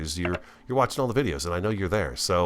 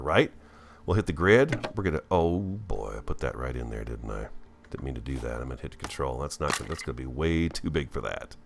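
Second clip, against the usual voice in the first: ordinary delivery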